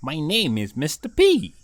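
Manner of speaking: a lightly voiced kindly pigeon; pigeon puppet voice. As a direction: play Mister P the friendly pigeon.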